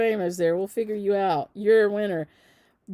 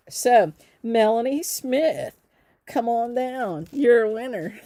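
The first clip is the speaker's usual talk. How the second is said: game-show announcer; 4 semitones higher, 6 dB louder, slower than usual. Pretend. Game-show style call of winner.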